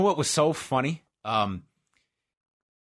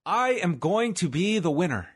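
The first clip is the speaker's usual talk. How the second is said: higher, emphatic, sing-out mantra; rousing affirmation; 5 semitones higher than usual. Pretend. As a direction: build it into a big affirmation. Affirmation building, third take.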